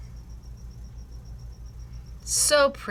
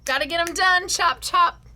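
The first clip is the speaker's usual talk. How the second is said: mock bossy hurry-up; 8 semitones higher, 3 dB louder than usual. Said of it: "I was like".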